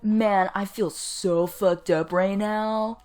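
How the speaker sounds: slow, lightly mocked teenager; hint of teenage angst. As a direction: drag it out like a moody teen. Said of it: "like teenagers".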